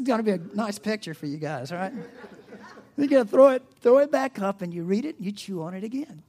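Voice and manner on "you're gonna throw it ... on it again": laughing while louder and higher. Real, not acted. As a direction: chuckle through the gross image. Laughing through cow image.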